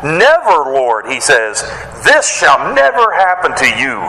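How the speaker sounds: acted rebuke, leaning on the key words; rebuking. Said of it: "Peter rebuking Jesus".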